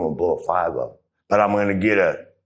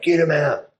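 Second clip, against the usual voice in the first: higher mock plea from the girls; imitating the girls; 10 semitones higher, 3 dB louder than usual. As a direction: voice the girls urging him out. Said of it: "They're like".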